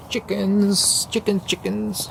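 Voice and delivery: high sing-song call to animals; calling chickens. Real, not acted.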